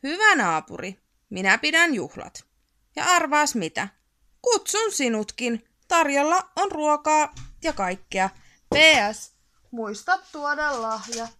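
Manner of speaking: a hint of a sweet, chirpy note; lightly voiced cheery neighbour. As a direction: read the invitation like a cheerful neighbour. Invitation read in a cheery voice. (kevyesti iloinen naapurin ääni)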